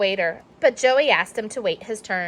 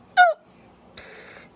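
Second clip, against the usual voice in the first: sheepish oops. Acted. Toy breaks.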